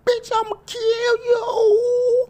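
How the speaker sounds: high, loud shrieking threats; screaming rage. Acted. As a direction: scream it like you've lost it. Church fight erupts, screaming threats.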